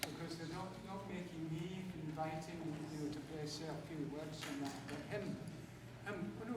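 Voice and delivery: lightly done Scottish accent, softly spoken; soft-voiced cross Scot, accent on. Shown as a demonstration. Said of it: "me to do a Scottish accent".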